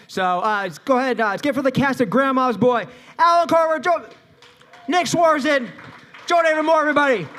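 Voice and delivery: loud, high stage introduction; hyped announcement. Real, not acted. Host brings out the Grandma's Boy cast, hyped announcement.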